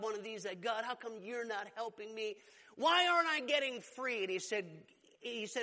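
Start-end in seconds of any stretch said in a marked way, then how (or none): 0.6-4.2 crying out to God. Retold or imitated. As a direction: imitate a frustrated appeal to God, rising at the end. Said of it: "he's crying out to God".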